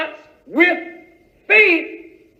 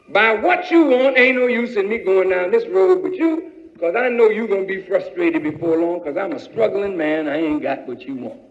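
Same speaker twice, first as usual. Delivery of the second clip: lower, resigned refusal; struggling man; 5 semitones lower than usual. Acted. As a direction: turn her down honestly.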